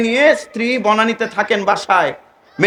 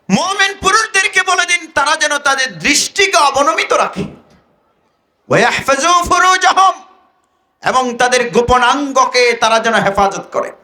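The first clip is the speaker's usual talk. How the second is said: raised-pitch scripture exposition; impassioned preaching; 6 semitones higher than usual. Acted. Preacher translating the verse for listeners, fervent. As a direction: preach the verse and its meaning to a crowd.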